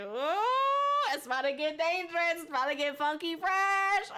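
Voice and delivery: playful hype. Retold or imitated. Streamer retelling their bakery reaction, playful hype. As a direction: hype it up like a silly announcement. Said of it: "I was like".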